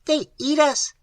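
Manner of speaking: high, calm alien voice; placid creature. A narrator's reading. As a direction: state it placidly, like a creature that does not care. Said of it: "said Oscar placidly".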